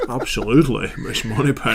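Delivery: put-on English accent. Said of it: "Can you all do English accents?".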